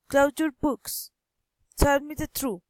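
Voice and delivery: commands that drop on BOOKS and TRUTH; falling command intonation. Shown as a demonstration. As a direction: let the pitch fall to a close on BOOKS, TRUTH. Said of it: "falling intonation".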